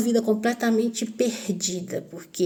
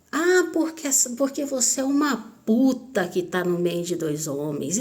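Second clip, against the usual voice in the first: mock drunken shouting; 3 semitones higher than usual. Drunk stepfather accusing her in the square, mild mock yell. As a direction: mimic his rant without really shouting. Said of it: "começou a gritar".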